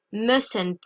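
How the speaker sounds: "mustn't" said mus-n't, no T after s; pronouncing mustn't. Shown as a demonstration. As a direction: drop the first T in "mustn't". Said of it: "on ne prononce pas le T de must".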